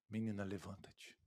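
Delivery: hushed, low-pitched gentle command; very soft, low. Retold or imitated. Preacher voices Jesus waking Jairus's daughter, very soft and low. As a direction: say it very quietly and low, barely voiced. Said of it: "Bem baixinho".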